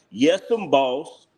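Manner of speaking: slow, drawn-out mock servility; mocking, stretched-out subservient reply; mock yes-man. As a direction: drawl it like a fawning yes-man, teasing. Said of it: "you sound like a yes and boss".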